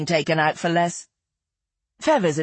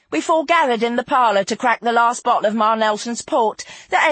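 lightly voiced raconteuse, pitched up in places; a touch of theatrical reminiscence; Feathers, nostalgic storyteller; 5 semitones higher than usual. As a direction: carry the tale along with feeling. Narrator voices Feathers continuing her tale.

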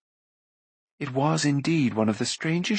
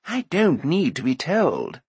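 shaky fearful bard; 3 semitones higher than usual. Acted. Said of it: "shaking so much".

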